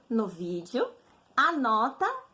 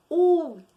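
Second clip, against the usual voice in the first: "Última" with a loud, stretched ÚL; emphatic teacher demo of the tonic úl in "Última"; stress on first syllable; 3 semitones higher, 6 dB louder than usual. Shown as a demonstration. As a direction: hit the opening úl of "Última" hard, then ease off. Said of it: "Essa aqui é a tônica".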